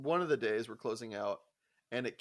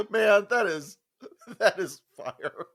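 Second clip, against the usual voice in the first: excited praise; 8 semitones higher, 9 dB louder, slower than usual. Retold or imitated. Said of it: "I was like".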